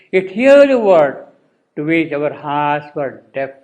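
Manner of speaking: slow verse reading with swelling stressed words; poetry recitation. Acted. Teacher reading on through the poem, solemn recitation. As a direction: launch each line strongly, then let it settle.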